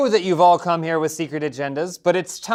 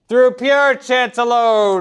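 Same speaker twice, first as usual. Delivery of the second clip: slow solemn announcement; 6 semitones higher, 6 dB louder, slower than usual. Acted. Game master announcing rule.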